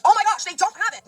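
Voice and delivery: high, loud shriek imitating a customer; retold scream. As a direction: shriek it like an outraged kid. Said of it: "she literally screamed it".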